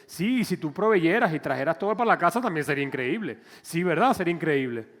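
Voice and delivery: mock husband retort.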